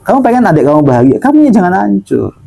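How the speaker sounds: brisk second telling of "kamu ya jangan hancur"; quick restatement. Shown as a demonstration. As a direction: rattle it off again quickly to drive it home.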